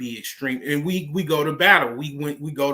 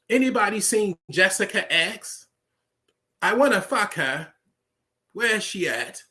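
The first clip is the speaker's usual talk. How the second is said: higher, hammed-up British accent; mock British accent; 6 semitones higher than usual. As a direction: play a silly posh British Englishman. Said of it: "we'll be speaking King's English".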